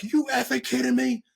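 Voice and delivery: can't believe what he hears; exasperated disbelief. Retold or imitated. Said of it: "I'm like".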